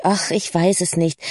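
understated, downcast admission; resigned. Acted. Lucy answering Cora about the holidays, resigned. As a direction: let it fall, at a loss.

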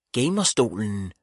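"Gamerstolen" as a query from mother; mildly puzzled question on "Gamerstolen". A narrator's reading. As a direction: say "Gamerstolen" questioningly, lifting the first part. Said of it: "lød det spørgende fra mor".

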